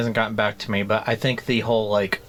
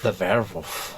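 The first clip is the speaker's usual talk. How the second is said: German accent; 4 dB quieter than usual. Shown as a demonstration. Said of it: "you have to say it with a German accent".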